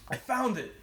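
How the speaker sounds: retold announcement. Cop calling to his partner from the car, mock announcing. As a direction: imitate calling out a find.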